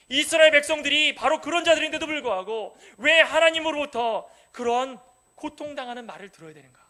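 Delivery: ordinary talk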